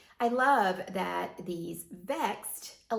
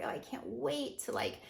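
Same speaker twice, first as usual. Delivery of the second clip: gushing promise; 5 semitones higher than usual. Retold or imitated. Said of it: "and I'm like".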